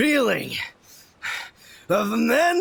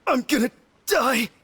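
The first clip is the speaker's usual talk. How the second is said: sobbing; 2 semitones higher, faster than usual. Acted. Freezing brother breaks down.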